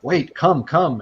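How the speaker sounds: a hammed-up seer calling them to follow; eager old seer. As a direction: cut in excitedly, waving them over. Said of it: "she interrupts you again".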